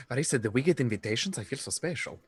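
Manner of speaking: put-on slipping into a Transylvanian-sounding accent. Guest delighted by an invitation, in Transylvanian accent. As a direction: play it in a loose Transylvanian accent. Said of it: "What was that Transylvanian accent you just did".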